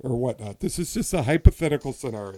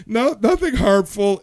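laughing; 4 dB louder than usual. Real, not acted. Laughing off the joke.

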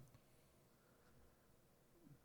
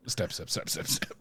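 rapid muttered jab sounds; mock stabbing in a string; spoken stabbing effect; 4 semitones lower than usual. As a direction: fire the word off like repeated jabs. Voicing the claw jabs.

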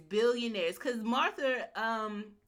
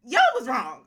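laughing realization; 10 semitones higher, 9 dB louder, faster than usual. Retold or imitated. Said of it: "I was like".

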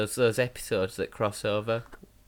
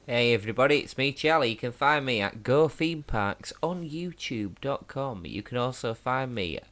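official voiceover; 3 semitones higher than usual. Acted. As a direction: plug it like a pre-recorded advert voiceover. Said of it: "this is my official voiceover voice".

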